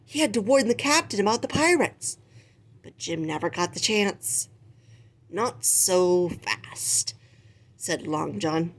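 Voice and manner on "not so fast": very slow, drawn-out threat; menacing pirate. Acted. Long John grabs Jim.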